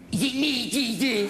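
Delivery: dry mocking echo of the question; sarcastic Jesus. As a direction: throw it back with sarcasm. Punchline, Jesus mocks in normal voice.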